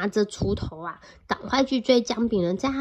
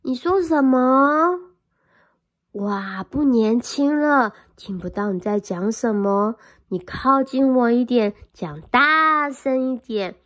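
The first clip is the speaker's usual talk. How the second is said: a lightly voiced cunning fox; sly fox; 4 dB louder than usual. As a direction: pretend to be hard of hearing. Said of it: "就假装他听不到".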